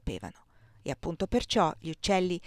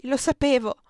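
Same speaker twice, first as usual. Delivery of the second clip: louder, higher, shaken certainty; alarmed exclamation; 6 semitones higher, 6 dB louder than usual. A narrator's reading. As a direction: blurt it out in alarm. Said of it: "esclamò Erika ritraendosi". (esclamazione allarmata, più acuta e forte)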